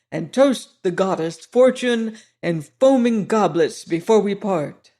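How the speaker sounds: a hint of a jovial French veteran holding forth; old soldier. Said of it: "said the old soldier".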